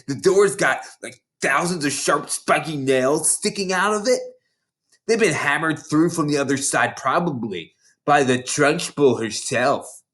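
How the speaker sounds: a lightly voiced big schoolgirl, gloating; bossy older girl. Hortensia sneering at the new girls, mildly voiced. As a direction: relish scaring the little ones.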